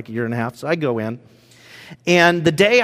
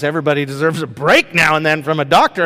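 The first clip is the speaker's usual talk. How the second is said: delighted; 4 dB louder, faster than usual. Real, not acted. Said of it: "I love the phrase".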